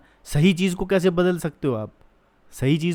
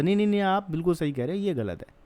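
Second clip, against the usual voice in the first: quick placating nos, dropping to an aside; hurried, humouring reassurance, imitated; 3 semitones higher, faster than usual. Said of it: "मौलाना को ही समझा रही थी ना".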